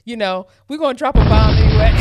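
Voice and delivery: laughing. Real, not acted. Dropping a sound bomb, laughing.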